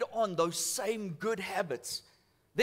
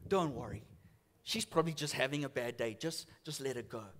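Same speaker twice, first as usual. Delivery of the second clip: gentle reassurance, retold; 7 semitones lower, 4 dB quieter than usual. Reassuring the nervous till lady.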